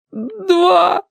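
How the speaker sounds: high sobbing shout; sobbing cry. A narrator's reading. Yurik sobs out to his rescuer how much was taken, in a high wailing cry. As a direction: cry out the answer, choking on tears. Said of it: "всхлипнул Юрик".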